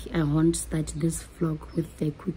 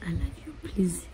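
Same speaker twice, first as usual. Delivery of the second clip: soft; 6 dB quieter than usual. Real, not acted. Vlog sign-off.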